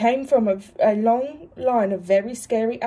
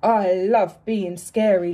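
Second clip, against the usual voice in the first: gleefully boastful; 3 semitones lower, slower than usual. Acted. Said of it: "laughed Alan".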